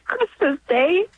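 fighting back tears; tearful. Real, not acted. Mother recalling bringing her newborn home, tearful. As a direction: voice catching on the words, slowed. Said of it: "I'm a little emotional talking about this".

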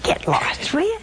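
whispered, unvoiced get lost; a whispered inner brush-off to a pest; muttered get lost. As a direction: hiss the brush-off under your breath. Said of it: "I think".

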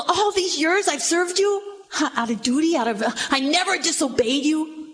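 elder son resenting his father, mild; resentful son. Acted. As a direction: throw his years of service back at him. Elder son's complaint.

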